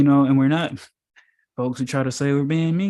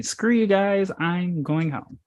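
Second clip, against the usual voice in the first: Cartman quote; 4 semitones higher, slower than usual. Retold or imitated. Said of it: "Miss Cartman would say".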